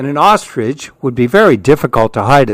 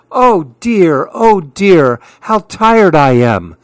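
complaining; 4 semitones higher, slower than usual. Acted.

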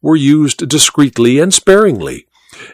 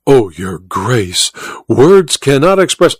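overwhelmed gratitude; slower than usual. Acted. Hyrax thanking the Duke for his barony, overwhelmed. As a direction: gush slowly with acted gratitude. Colonel overwhelmed by new title.

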